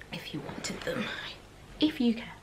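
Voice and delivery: whispered aside. Real, not acted. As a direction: mumble it off as a joke. Self-deprecating aside.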